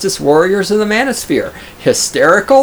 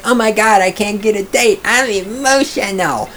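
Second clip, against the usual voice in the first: higher, whiny mock voice; mocking whiny MGTOW; 5 semitones higher than usual. Streamer mocking MGTOWs, higher whiny mock voice. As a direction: whine it like a sulking incel. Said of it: "the meghtow's like".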